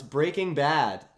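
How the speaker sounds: slow, deliberate "Breaking Bad"; measured demonstration of "Breaking Bad"; correcting the rhythm. Shown as a demonstration. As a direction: spell out the tune of "Breaking Bad" unhurriedly. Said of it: "you go up and down".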